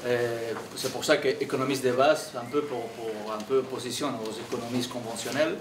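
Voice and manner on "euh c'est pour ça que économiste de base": Catalan-accented French; foreign accent in french. Real, not acted. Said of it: "je m'excuse si mon français n'est pas très clair".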